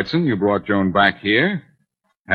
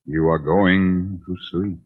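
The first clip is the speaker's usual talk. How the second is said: slow, deliberate hypnotist voice, playfully put on; mock hypnotist; slower than usual. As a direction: draw her in like a stage hypnotist. Blackie mock-hypnotizing Mary.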